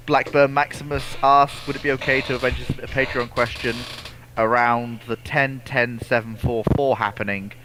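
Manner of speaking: ordinary talk, nothing marked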